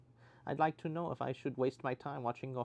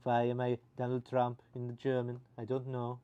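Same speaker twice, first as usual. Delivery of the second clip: put-on German accent. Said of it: "speak a German".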